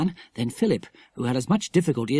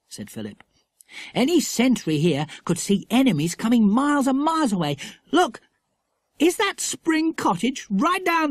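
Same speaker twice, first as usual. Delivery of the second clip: put-on awed boy; 9 semitones higher than usual. A narrator's reading. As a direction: marvel at the view.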